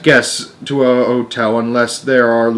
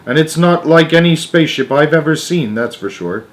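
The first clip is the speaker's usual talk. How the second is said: excited; 5 semitones higher, 4 dB louder than usual. Acted. Astronaut reports to Houston.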